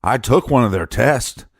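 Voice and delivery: mock boast to the guys; mock bragging. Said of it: "he's so braggadocious that he's going".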